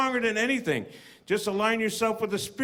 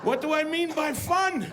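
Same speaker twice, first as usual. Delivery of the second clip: higher, rising to a laughing shout; spiraling panic; 5 semitones higher than usual. Retold or imitated. Stoned student questioning fun, higher and rising to a shout.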